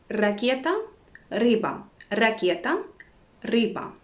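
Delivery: Ракета and рыба with a trilled initial r; rolled Russian R. Shown as a demonstration. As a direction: roll the first sound of Ракета and рыба. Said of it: "try pronouncing this letter like this".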